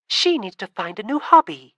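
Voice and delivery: taunting. Acted. Nymphs taunting the girl.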